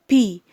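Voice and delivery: بي as "pee", a puff of air from the lips. Shown as a demonstration. Teacher showing pupils letter P, aspirated and emphatic. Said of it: "لازم يطلع معانا هوا".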